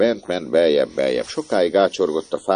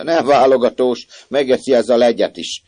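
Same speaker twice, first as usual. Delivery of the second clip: amused remark; 7 semitones higher, 7 dB louder than usual. A narrator's reading. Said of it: "és nevetett hozzá".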